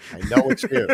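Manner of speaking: whisper-play a spooky stalker on the phone; creepy caller. Pretend.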